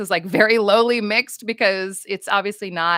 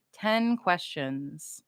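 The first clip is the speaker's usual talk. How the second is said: Ten questions, drawn out slowly, each word stretched; slow musing; 5 dB quieter, much slower than usual. Shown as a demonstration. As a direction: repeat it slowly as if puzzling it out. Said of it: "which I'm hearing is ten questions".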